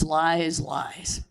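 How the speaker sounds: repeated word fading into a laugh; mocking repeat that fades to laughter; trailing off laughing. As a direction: let the last lies dissolve into a laugh. Owner scoffing at buyer.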